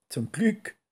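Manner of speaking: happy skunk calling out. Acted. Skunk glad there is no spell, high glad call. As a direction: cheer it out like a relieved little skunk. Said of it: "rief das kleine Stinktier".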